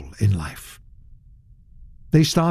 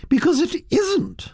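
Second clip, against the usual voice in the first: high, grand society dame; lofty aristocrat holding court; imperious old duchess; 11 semitones higher than usual. A narrator's reading. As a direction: lay down the law like a duchess. Duchess voiced in story.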